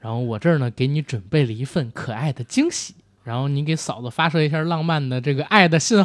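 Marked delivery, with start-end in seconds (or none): 0.0-2.9 sweet-talking. Shown as a demonstration. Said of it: "我教你，你怎么跟嫂子说".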